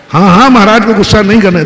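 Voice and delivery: fast, eager sycophantic nodding; eager agreement. Acted. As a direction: rush to agree with the gossip. Devotee eagerly agreeing with gossip.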